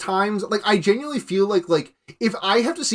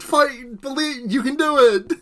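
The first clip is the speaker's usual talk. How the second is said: light fake Japanese fisherman cheer; fake Japanese accent; 8 semitones higher, slower than usual. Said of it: "the fake Japanese fisherman standing in the water".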